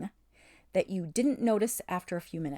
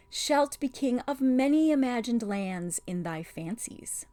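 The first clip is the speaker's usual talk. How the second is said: put-on soothing, humoring a child; 5 semitones higher, 3 dB louder than usual. A narrator's reading. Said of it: "in a soothing voice, as if humoring a child".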